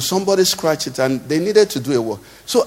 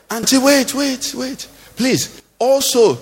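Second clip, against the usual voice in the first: calling after someone; 5 semitones higher, slower than usual. Acted. Prophet calls after the widow.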